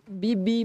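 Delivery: a light mock horn beep; horn beep imitation. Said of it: "falou assim, ô".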